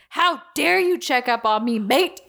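lightly voiced mock Aussie man; indignant boyfriend in a mild Australian accent. John calling Chloe back, mild mock Australian accent. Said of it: "And he says".

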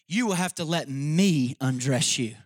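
slow, grave lion voice; Aslan the lion. Acted. Aslan telling Eustace he must be undressed, slow and grave. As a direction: let the lion speak slowly and steady. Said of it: "Then the lion said".

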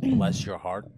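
lightly Southern, sweetly sarcastic; Southern sweet sarcasm. Acted. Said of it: "someone from down south says".

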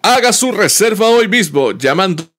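over eager infomercial pitch. Pretend. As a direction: sell it like a late-night TV ad. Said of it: "como infomercial".

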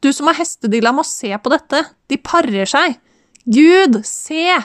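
high, excited calling. A narrator's reading. Woman calling her host to see zebras mating, excited. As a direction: call him over excitedly, pitch up.

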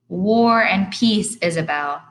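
slow, loud teasing call; dad calling back to mom, slow and loud. Acted. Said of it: "he called out".

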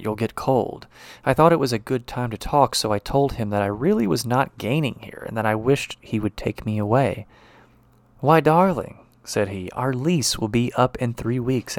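reads the passage with a lightly voiced doctor husband; story reading. Expressive reading aloud. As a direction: lecturer reading the novella aloud to the class, a lightly acted story voice.

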